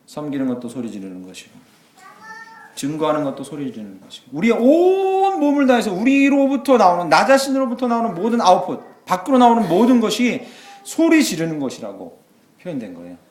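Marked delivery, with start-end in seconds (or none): 4.3-12.2 full-force preaching. Acted. Pastor urging the congregation, loud preaching. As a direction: lift the whole church with it.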